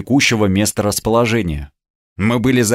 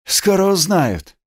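stern promise; 7 semitones higher than usual. A narrator's reading. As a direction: promise it sternly to your own men. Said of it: "строго пообещал своим Олесь".

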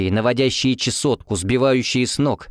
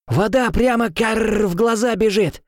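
high slow croaky complaint with a caw; raven-like complaint; 11 semitones higher, slower than usual. A narrator's reading. Gron as a raven complains about rain, high croak. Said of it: "мотал головой Грон".

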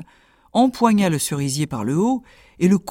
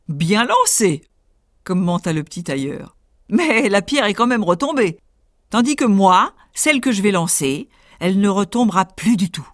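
boastful tailor; 3 semitones higher than usual. Acted. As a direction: brag cheekily.

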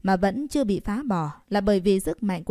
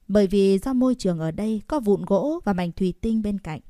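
usual speaking voice

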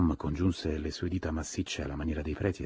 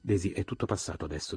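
solemn; 3 semitones higher than usual. Acted. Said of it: "disse in tono solenne".

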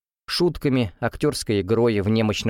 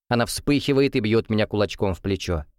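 ordinary delivery

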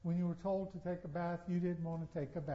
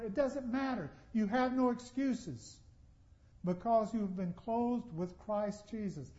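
ordinary talk

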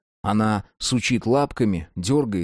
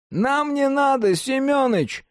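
high shout down the corridor. Acted. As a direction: yell it to the guard. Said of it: "крикнул он".

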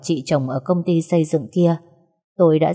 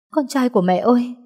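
higher, pleading call to her son; anxious mother's cry; 6 semitones higher than usual. Acted. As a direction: call him, scared and relieved. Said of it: "run rẩy sờ mặt nó". (tiếng gọi con lo lắng, cao giọng)

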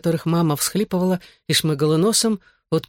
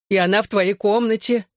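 wailing; 5 semitones higher than usual. Acted. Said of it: "завывала мама".

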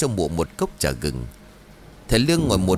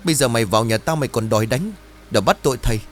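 furious scolding; 2 semitones higher, faster than usual. Acted. Chín scolding the greedy Trang, furious. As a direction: tear into her, spitting fury. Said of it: "nghiến răng rồi bảo".

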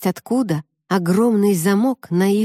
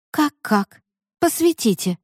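snapping back; 6 semitones higher than usual. A narrator's reading. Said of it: "огрызнулась Лика".

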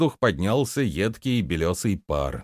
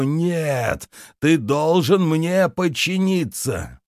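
high, anguished shout of pain; angry crying; 7 semitones higher, slower than usual. A narrator's reading. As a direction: scream it through the pain. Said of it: "закричал он, захлёбываясь болью". (крик, захлёбываясь болью)

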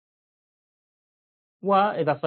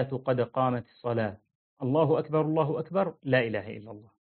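iqama recitation. Shown as a demonstration. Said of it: "في الإقامة".

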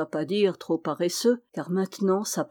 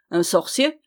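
scandalized echo; 4 dB louder than usual. A narrator's reading. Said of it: "d'un air scandalisé".

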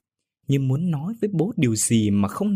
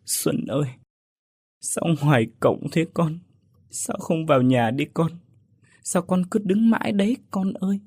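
mother calling out; 5 semitones higher than usual. A narrator's reading. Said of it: "Bà chợt gọi".

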